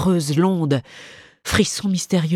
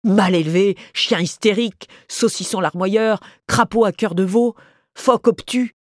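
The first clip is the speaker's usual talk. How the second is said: cold insults; 3 semitones higher than usual. Acted. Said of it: "de froides injures tombèrent".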